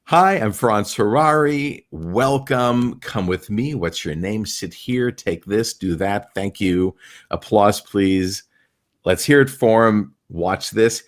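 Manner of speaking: announcing to a crowd, slowly at first; a magician greeting the crowd; lightly performed stage host lines; showman patter. Acted. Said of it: "You need".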